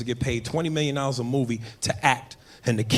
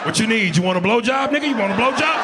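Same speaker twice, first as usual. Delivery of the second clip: higher, rising urgent offer; mock desperate questioning; desperate passenger; 7 semitones higher than usual. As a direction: climb higher as the offer grows frantic. Passenger pleading with stressed pilot.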